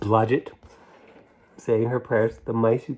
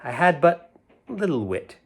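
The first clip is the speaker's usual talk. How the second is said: sing-song nursery rhyme reading; lilting storybook recital. A narrator's reading. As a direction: read it like a rhyme to children. Reads rhyme aloud.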